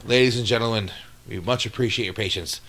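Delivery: polite cabin announcement, a hint mock; flight attendant. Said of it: "send it to Steve for the outro".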